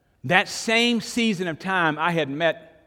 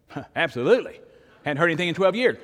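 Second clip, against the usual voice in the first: eager yes; 3 semitones higher, 4 dB louder than usual. Retold or imitated. Eager reply to silent brother.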